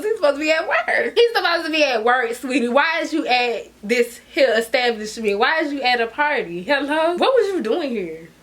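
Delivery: retold tirade, firing off incredulous questions; cussing out. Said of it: "So I'm cussing him".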